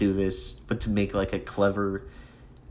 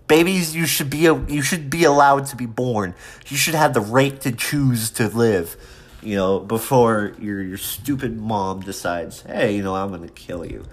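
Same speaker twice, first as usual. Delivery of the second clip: sarcastic; 2 semitones higher, 4 dB louder than usual. Acted. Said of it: "I know I'm being sarcastic".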